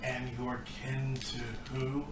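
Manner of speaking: soft, slow orc question; lightly voiced puzzled orc; dazed orc. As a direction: ask it slowly, still groggy. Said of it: "still dazed".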